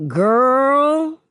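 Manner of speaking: high, loud, drawn-out exclamation; eager gossip. A narrator's reading. Kenya bursting to drop her story, eager gossip. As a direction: launch juicy gossip with relish. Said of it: "she sounds like she's been waiting".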